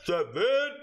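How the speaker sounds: ordinary talk, nothing marked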